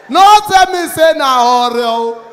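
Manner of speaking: slow, loud wail of disbelief; shouting at the agent in mock despair; comic despairing shout. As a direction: yell it like you can't believe it. Despair at far location.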